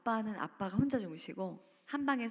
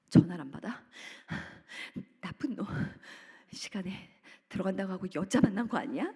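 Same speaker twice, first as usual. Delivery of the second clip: mock angry outburst; 3 dB louder than usual. Furious at unanswered calls.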